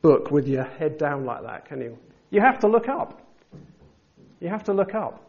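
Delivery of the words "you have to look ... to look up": emphatic. Real, not acted. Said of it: "preacher urging congregation".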